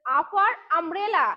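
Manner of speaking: very slow আ for umbrella; slow phonics drill; slowly sounded out. Shown as a demonstration. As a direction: stretch each part out slowly.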